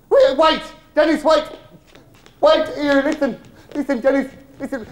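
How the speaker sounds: high, loud, urgent pleading. Acted. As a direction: call after him so he won't leave. Begging Dennis to stay.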